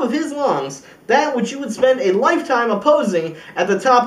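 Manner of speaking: voicing America's defiant challenge. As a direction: throw it down as a dare. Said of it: "It's gonna say".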